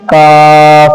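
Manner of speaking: काफ with plain k and open long a; normal kaf. Shown as a demonstration. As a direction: say काफ straight, vowel held. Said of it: "बिल्कुल normally".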